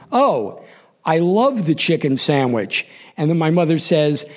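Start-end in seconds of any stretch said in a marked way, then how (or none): 0.1-2.9 carefully recited line, pauses after the opener; mock a kid delivering a coached answer; careful, rehearsed. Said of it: "very carefully, I give the rehearsed line".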